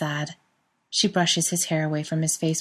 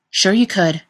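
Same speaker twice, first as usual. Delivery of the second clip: cutting in; 3 semitones higher, 7 dB louder than usual. A narrator's reading. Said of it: "Chris cuts him off".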